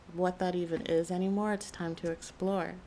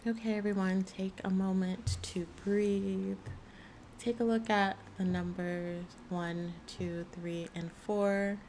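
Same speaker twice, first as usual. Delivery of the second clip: guided calm voice; 3 dB quieter than usual. Acted. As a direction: gently guide the listener to choose. Leads card choice, slow and soft.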